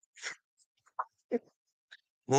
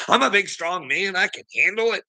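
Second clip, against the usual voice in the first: higher, pompous mock strongman; mock macho boast; 9 semitones higher than usual. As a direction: puff it up like a fake tough guy. Mocking Gavin as tough guy.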